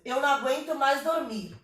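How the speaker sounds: flowing line of verse with a beat; rhythmic verse reading. Shown as a demonstration. Teacher reading the poem to students, rhythmic reading. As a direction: read in rhythm at a natural pace. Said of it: "A gente lê com ritmo".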